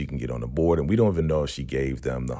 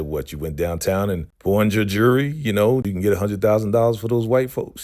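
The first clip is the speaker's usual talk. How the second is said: raised, higher voice, imitating an incredulous husband; retold confrontation; 5 semitones higher, 4 dB louder, faster than usual. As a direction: act out confronting your wife. Retold husband confronting his upset wife.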